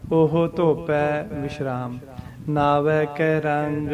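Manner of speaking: slow reading with a pause after ਧੋਪੈ; pause after dhopai. Shown as a demonstration. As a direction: break after ਧੋਪੈ, then ਨਾਵੈ ਕੈ ਰੰਗ. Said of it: "ਧੋਪੈ ਤੇ ਵਿਸ਼ਰਾਮ ਆਊਗਾ".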